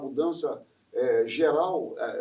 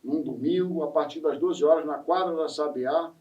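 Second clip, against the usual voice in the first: measured promotional invitation; event announcement; 3 dB louder than usual. Real, not acted. Host inviting listeners to the samba school's feijoada, announcer style. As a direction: announce the feast to everyone listening.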